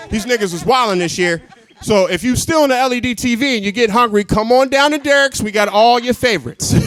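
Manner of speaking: pitchman hollering deals over a bullhorn; lightly hammed-up megaphone pitch. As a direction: sell food to rioters like a hype man. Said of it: "myself on a bullhorn just yelling out".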